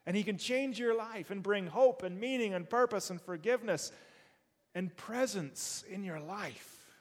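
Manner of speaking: excited testimony. Pretend. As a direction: tell them like it changed everything. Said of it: "you gotta tell them".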